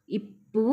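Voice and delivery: "ఇప్పు" with a held double p; pressed doubled consonant. Shown as a demonstration. Teacher showing learners the doubled p, pressed "ఇప్పు". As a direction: close hard on the pp in "ఇప్పు". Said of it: "దీన్ని ఒత్తి పలకాలి".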